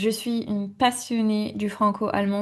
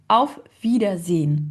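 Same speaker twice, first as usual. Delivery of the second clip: "Auf Wiedersehen" with every syllable given time; unhurried syllables; 3 dB louder than usual. Shown as a demonstration. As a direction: take your time over each syllable of "Auf Wiedersehen". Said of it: "prendre le temps de dire les mots".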